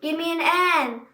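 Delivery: pep squad cheer =62; cheerleader shout. A narrator's reading. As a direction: call it out like a cheerleader. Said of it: "shouted the cheerleaders".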